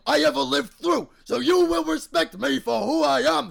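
booming proud boast; proud shouting. Acted. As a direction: shout it with pride. Proud dad boasting about a kill.

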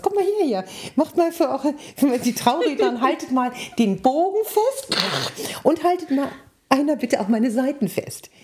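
high, carrying call across a windy meadow. Retold or imitated. Wedding speaker calling two boys from the crowd to hold the arch, high call. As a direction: summon helpers over the wind.

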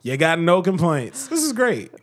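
emphatic, sarcastic boasting. Real, not acted. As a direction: sell it with overdone conviction. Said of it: "You sound very sarcastic".

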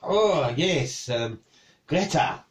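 put-on recalling, in a French accent; casual French-accented recognition. Cook recalls the chicken's owner, French accent. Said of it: "you can do a French accent".

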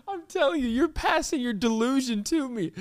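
high voice breaking toward helpless laughter; on the edge of laughing and crying; starting to laugh. Real, not acted. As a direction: protest while fighting off the giggles. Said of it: "I'm starting to laugh for no reason".

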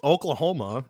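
hiccuping mid-word; talking through hiccups. Real, not acted. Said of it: "I can't stop hiccuping all of a sudden".

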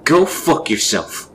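high, slow, full-force yell; hysterical battle-ready scream. A narrator's reading. Screaming back at the creature outside, hysterical and defiant. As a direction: scream it wounded but ready to fight. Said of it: "screamed alongside his hysterical, horribly wounded yet still battle-ready tone".

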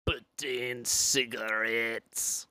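very slow attempted French Canadian accent. Shown as a demonstration. Guest attempting requested accent, slow off-target French Canadian accent. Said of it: "let's get French Canadian".

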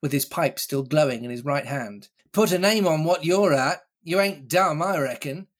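put-on roaring old pirate dare; lightly voiced defiant buccaneer; challenging pirate captain. Silver challenges the crew.

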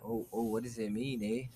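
soft, lightly put-on Canadian accent; mock Canadian. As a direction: try a quiet Canadian accent. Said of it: "Oh, Canadian".

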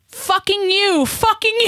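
high-pitched mock cursing in mom's broken English; imitating mom's broken English. Daughter imitating mom cursing a driver, high broken English. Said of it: "She does this thing, it's so cute".

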